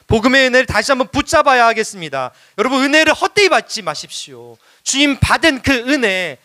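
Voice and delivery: high, emphatic sermon delivery; impassioned preaching. Real, not acted. Preacher concluding to beloved congregation, impassioned exhortation. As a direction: proclaim it with conviction to the congregation.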